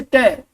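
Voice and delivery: a crisp "टे" on its own, the T sound at the end of "आस्क्ड"; final t sound. Shown as a demonstration. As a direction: isolate the final "टे" sound clearly. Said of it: "आस्क्ड टे बोलता है पीछे". (अंत की ध्वनि "टे" अलग से साफ़ बोलना)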